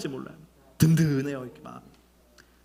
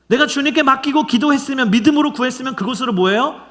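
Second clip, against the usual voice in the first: preaching at full force; 8 semitones higher, 6 dB louder than usual. Real, not acted. Preaching climax rising.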